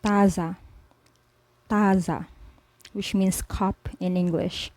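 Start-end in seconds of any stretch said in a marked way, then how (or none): 0.0-2.3 taza said with a crisp unaspirated Spanish t; Spanish word. Shown as a demonstration. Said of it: "Say, for example".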